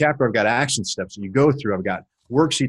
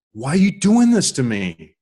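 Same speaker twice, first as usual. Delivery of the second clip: a touch louder, pleading mock yell; retold scream; 3 semitones higher, 4 dB louder than usual. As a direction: replay the cry at God, restrained. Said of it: "I just screamed".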